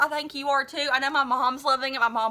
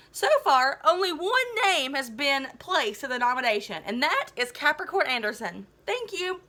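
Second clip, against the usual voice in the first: a light principal's PA voice; lightly voiced school intercom; PA announcer; 4 semitones higher than usual. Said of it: "voice of Mister Kosigi".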